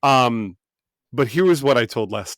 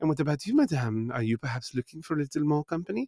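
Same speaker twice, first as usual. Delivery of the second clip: soft, put-on French accent throughout; 4 semitones higher, 8 dB quieter than usual. Speaker retelling a woman addressing the lady at the table: French accent. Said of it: "So it was all French accents".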